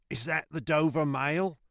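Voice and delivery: high put-on hailing voice; calling from afar. A narrator's reading. Rider asking the guard, high calling voice. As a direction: repeat the hail across distance. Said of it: "a man's voice called from the mist".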